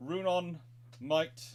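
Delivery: ordinary talk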